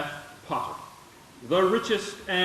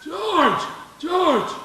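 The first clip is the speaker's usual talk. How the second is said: sharp loud yell across the shop; bellowed summons from the back room; angry call; 10 semitones higher, 4 dB louder than usual. Acted. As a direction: bellow his name to summon him. Boss calling angrily for boy.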